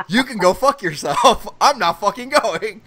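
slow, loud retold refusal; emphatic, drawn-out exasperation; defiant refusal. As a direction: spell out the refusal slowly and forcefully. Retold flat refusal to girlfriend.

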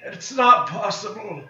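villain's dramatic denial. Pretend. Defeated boss, mock villain lament.

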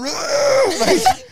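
high, drawn-out mock roar; mock fight growl. Teller imitating two men scrapping in a tent, mock roar.

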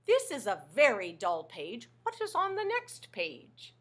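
lightly voiced Grover, furry and fretful; a hint of a worried little monster; bored little monster asking what's next. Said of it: "Grover's saying".

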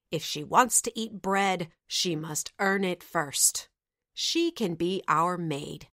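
harsh, sneering stepmother voice; wicked stepmother. Acted. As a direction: spit it out with contempt. Stepmother orders the girl.

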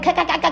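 mock "ka-ka" laugh in syllables; imitated laugh. Speaker describing someone to laugh with, imitated laugh. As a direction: spell out a laugh, ka ka ka. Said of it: "laugh with".

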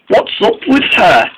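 high, wondering question; a lightly voiced puzzled friend; puzzled engine voice. Neville puzzled about Molly.

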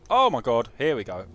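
loud burst of excitement; thrilled outburst; excited. Real, not acted. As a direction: exclaim it loudly. Game begins.

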